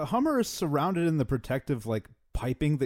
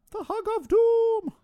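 ominous doom voice; 5 dB louder, slower than usual. Pretend. Ominous movie-trailer joke.

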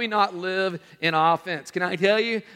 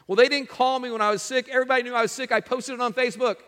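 mock-whiny, pitched higher, imitating a hurt churchgoer; whiny complaint; 5 semitones higher, faster than usual. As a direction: complain like someone nobody phoned while sick.

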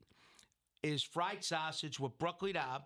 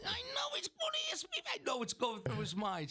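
whispered inner thoughts. Retold or imitated. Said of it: "And you gotta know Anthony".

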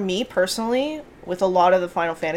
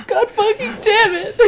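hammed-up yelp over a stubbed toe; 14 semitones higher than usual. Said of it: "he stubbed his toe".

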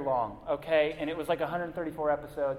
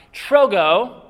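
"Trogo" said loud and high; stressed "Trogo"; 6 semitones higher, 14 dB louder than usual. Shown as a demonstration. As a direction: call out "Trogo" with a rise. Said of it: "Everybody say trogo".

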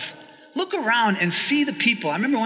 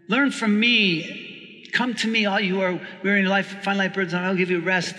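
gentle reading. Acted. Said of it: "Jesus goes on to say".

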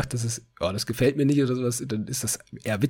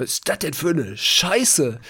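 slow, higher, a lighter mimic of the surgeon; surgeon's blunt quote; 4 semitones higher, slower than usual. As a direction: repeat the surgeon's line, drawn out. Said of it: "wie die das angeguckt hat". (langsam und etwas höher, die Chirurgin nachgemacht)

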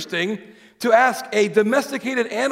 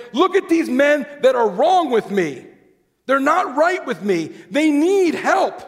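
urgent plea; 6 semitones higher, slower than usual. Acted. God voiced speaking to Job.

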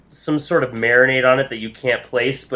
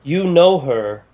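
lightly voiced, measured deity; a hint of stately divine speech; solemn goddess; 4 semitones higher than usual. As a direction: answer gravely as a goddess recalling an old loss. Game master answers as the goddess.

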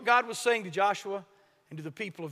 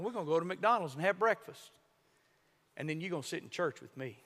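lower, softer, gentler retelling; tender; 3 semitones lower, 5 dB quieter, faster than usual. Acted. Old man gently promising church to boy, soft. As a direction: let it settle softly.

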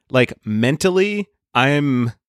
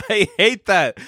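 vomiting sound; 6 semitones higher than usual. Pretend. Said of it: "I made the vomiting sound".

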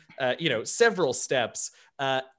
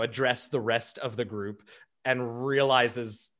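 ordinary talk

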